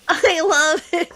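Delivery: slow acted love line; line being mimicked. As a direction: give the heartfelt line slowly, lightly hammed up. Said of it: "then he does the repeat back".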